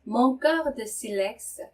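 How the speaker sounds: French phrase said very slowly with a rising end on silex; slow teacher repeat; slow repeat with a rise. Shown as a demonstration. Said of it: "slow model reading of French".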